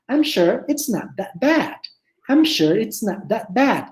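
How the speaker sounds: slow, careful model of "I'm sure it's not that bad"; teacher models the line for the class, slow and careful; correct pronunciation demo. Shown as a demonstration. Teacher modelling the English sentence slowly for students. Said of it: "tiene que salirme exactamente lo que es".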